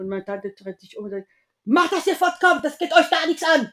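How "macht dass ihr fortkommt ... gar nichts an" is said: very high, loud telling-off; angry shout. Retold or imitated. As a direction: re-enact an aunt yelling children away. Aunt turns round and chases children off.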